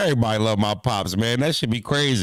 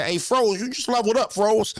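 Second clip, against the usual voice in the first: 1 mimicking Lux; 9 semitones higher than usual. Mimicking Lux calling him out.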